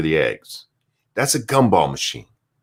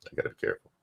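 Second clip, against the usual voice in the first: quieter, trailing away; fading mutter; 11 semitones lower, 13 dB quieter, much faster than usual. Real, not acted. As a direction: let it fade almost to nothing. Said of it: "I can't say it on the air".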